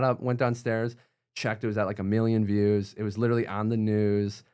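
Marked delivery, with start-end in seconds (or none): none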